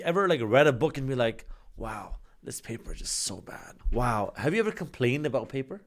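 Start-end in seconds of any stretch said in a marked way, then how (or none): 1.8-4.3 low, hushed fake complaint; mock dismay. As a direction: play a quietly appalled reader. Imagined reader complaining about paper.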